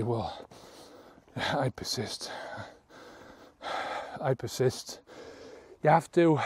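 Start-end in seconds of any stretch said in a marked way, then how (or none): 0.0-5.0 soft, low, half-hearted I persist; weak negative way. Shown as a demonstration. Demonstrating the wrong way to say the affirmation, soft and low. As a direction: mumble it like you don't mean it. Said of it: "you can't say".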